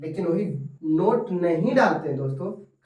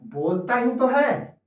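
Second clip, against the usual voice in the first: "ही तो" stressed, slow and higher; emphatic ही तो; 5 semitones higher, slower than usual. Shown as a demonstration. Teacher showing emphatic Hindi meaning. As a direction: insist with "ही तो". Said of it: "जोर डालकर बोला जाता है".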